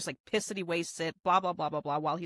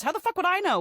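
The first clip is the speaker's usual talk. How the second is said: higher, louder retort, a hammed-up outburst; mock angry retort; 11 semitones higher, 5 dB louder, faster than usual. Cowboy snapping at Rain over the smoke, mock angry. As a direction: snap back like an offended cowboy.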